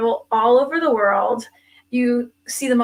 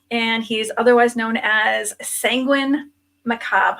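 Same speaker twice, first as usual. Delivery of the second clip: whispering. Acted. Dramatic spooky name reveal.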